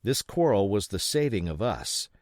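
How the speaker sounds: usual speaking voice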